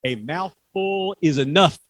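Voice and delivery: slow, loud mock snarl; snarling dragon. The dragon warns the owl, a slow loud snarl. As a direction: drag the words out like a hungry beast. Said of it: "snarled the dragon".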